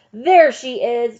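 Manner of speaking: loud, high, drawn-out accusing cry; shout. A narrator's reading. Mob leader spotting the teacher in the schoolhouse, shouting. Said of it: "Trout shouted".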